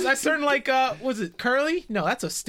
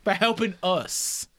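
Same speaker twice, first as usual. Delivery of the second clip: put-on Southern accent. Player coaxing the prisoner with a growing Southern accent. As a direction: coax him like a Southern gentleman, accent creeping in. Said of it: "Getting more southern as we go".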